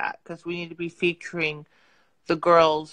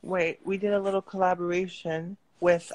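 talking around a retainer; speech blurred by a retainer; wearing a retainer. Real, not acted. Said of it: "I have my retainer in. So I'm talking funny".

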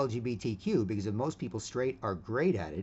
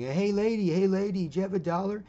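high, loud pleading beggar voice; begging homeless guy; 10 semitones higher, 6 dB louder than usual. Retold or imitated. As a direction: whine up high for a dollar. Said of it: "homeless guy that's going".

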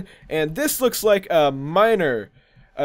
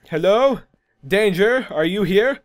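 calling out; 3 semitones higher than usual. Pretend. Jokingly calls out to danger.

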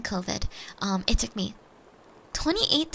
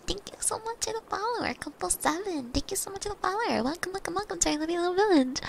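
light, pitched-up streamer greeting; cutesy follower thanks; 7 semitones higher, faster than usual. Real, not acted. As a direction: coo a quick thank-you to new followers.

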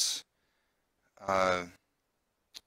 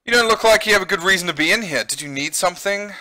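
higher, brisk challenge, lightly acted; doctor questioning intruder; 6 semitones higher, 5 dB louder, faster than usual. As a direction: question an unwelcome visitor quickly. Reads the doctor's line in game.

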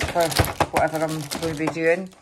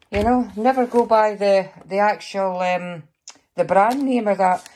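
losing voice. Real, not acted. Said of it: "I'm losing my voice".

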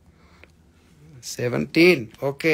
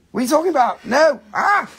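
mock freak-out; 9 semitones higher, 4 dB louder, faster than usual.

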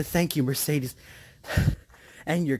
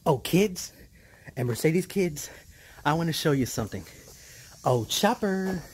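excited; 3 semitones higher, 4 dB louder than usual. Real, not acted. Excited to show the puppy.

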